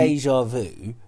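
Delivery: lightly French-accented déjà vu. Shown as a demonstration. Showing the co-host what annoys, French accent. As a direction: put a little French on déjà vu. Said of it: "in a French accent".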